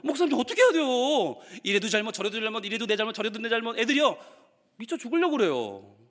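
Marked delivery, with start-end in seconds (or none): 0.0-1.4 high, plaintive mock appeal; exasperated child. Child appealing to the pastor, exasperated. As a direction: imitate a kid at wits' end. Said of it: "애들은 정말 너무너무".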